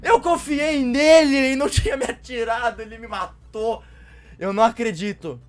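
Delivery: loud, high betrayed outburst; outraged shouting. Real, not acted. Betrayed and killed by player.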